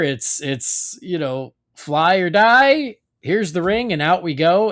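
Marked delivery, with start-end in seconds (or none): 1.8-4.7 raised, louder mentor's challenge, stretching "fly or die"; lightly acted rallying call; mock urgent pep talk. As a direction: play the veteran daring a rookie. Voices veteran Hal urging rookie John.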